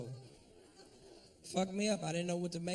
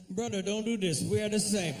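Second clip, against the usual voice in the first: higher-pitched mock Indian accent, imploring; pleading Indian man; 4 semitones higher than usual. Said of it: "all of a sudden we the same".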